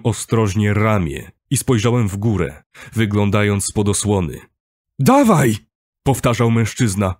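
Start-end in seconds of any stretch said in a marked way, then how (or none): 5.0-5.6 high, loud urging yell; urgent shout. A narrator's reading. Man urging dazed narrator up, urgent shout. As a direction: shout to spur him on. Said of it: "Wrzask stał się wyraźny".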